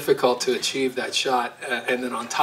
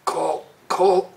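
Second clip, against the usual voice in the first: dog voice; 3 semitones higher than usual. Pretend. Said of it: "they all have had voices".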